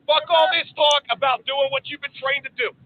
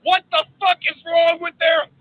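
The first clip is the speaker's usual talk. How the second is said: loud, fired-up yell; hyped shout; 4 semitones higher, 3 dB louder than usual. Real, not acted. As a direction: pump up the room. Hyped rant to marines.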